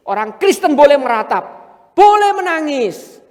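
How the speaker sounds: fervent sermon climax; preaching at full force. Acted. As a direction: plead the point to the congregation.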